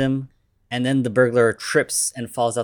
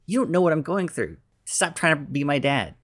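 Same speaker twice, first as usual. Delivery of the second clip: higher, faster, a touch of mock anger; angry teen outburst; 5 semitones higher than usual. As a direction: snap back at the uncle, hurt and fast. Peter snaps at his uncle.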